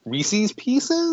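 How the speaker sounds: "Pieces" said with a long ee, like peeces. Shown as a demonstration. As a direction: say "Pieces" rhyming with Reese's. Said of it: "say Pieces correctly".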